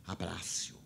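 soft whispered instruction. Retold or imitated. Spirit guide whispering to the speaker, hushed. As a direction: breathe it out as a gentle whisper.

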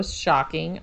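slow, drawn-out sarcastic shock. Real, not acted. Podcast host on own unsurprising test result, sarcastic. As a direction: say it slowly, with mock surprise. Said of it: "by shocking, I'm being sarcastic".

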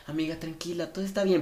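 quiet, soothing friend's voice; calm her down gently; softly telling a friend it's fine; soft reassurance. Retold or imitated. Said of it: "es como".

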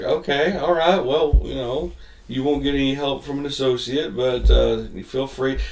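mock placating. Acting buddy placating customers.

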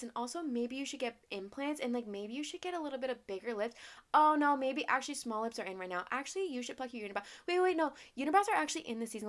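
mocking everybody's advice. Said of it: "everybody telling me".

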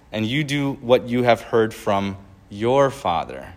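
earnest, measured Bible reading; preacher reading scripture aloud. Acted. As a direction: read the words of Jesus with weight. Reads Jesus' words aloud.

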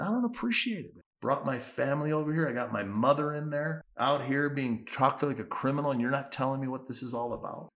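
indignant. Retold or imitated. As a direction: lean in and protest insistently. Leaning into official, complaining.

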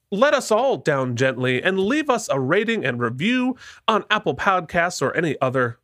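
a light Southern twang; Southern accent. Real, not acted. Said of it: "I just accidentally did a Southern accent".

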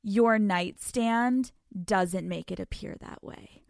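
slow, deliberate accusing line; pointed slow accusation. Retold or imitated. Confronting boyfriend about the nightstand, slow and pointed. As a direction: lay it out slowly and pointedly. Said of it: "And I'm like".

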